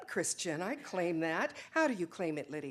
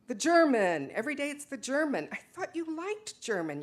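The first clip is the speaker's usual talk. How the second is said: irritated outburst; 4 semitones higher, 4 dB louder than usual. Acted. Joseph complains about the German.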